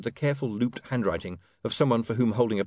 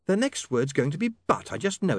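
put-on higher, brisk young woman's voice; 6 semitones higher than usual. A narrator's reading. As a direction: voice her lightly as a young woman. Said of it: "Sacharissa speaking".

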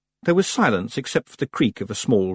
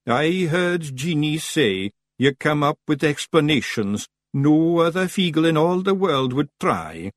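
raised, earnest Scottish praise; admiring Daft Willie; 7 semitones higher, slower than usual. A narrator's reading. Daft Willie praising Rob's explanations, admiring. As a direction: praise him in simple admiration. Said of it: "said Daft Willie admiringly".

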